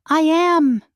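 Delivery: high, loud frightened scream. A narrator's reading. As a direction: shriek back at him. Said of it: "I scream".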